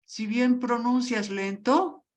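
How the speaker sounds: drawn out slowly, as if speaking to a learner; slow quoted praise. Retold or imitated. A teacher praising her English, slowly and clearly. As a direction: stretch each word out slowly. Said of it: "me decían".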